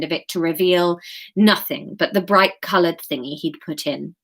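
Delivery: measured live chapter reading; story narration. A narrator's reading. Author reads her chapter to live listeners, story narration.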